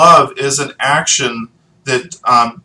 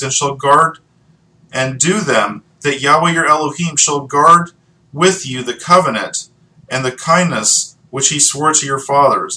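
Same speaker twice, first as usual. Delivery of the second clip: measured, slightly raised reading voice; solemn public reading of scripture. Acted. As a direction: read the verses aloud to the congregation. Reads Deuteronomy passage.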